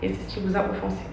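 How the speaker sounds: measured, careful statement reading. Acted. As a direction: read it like a prepared apology. Reads her written statement.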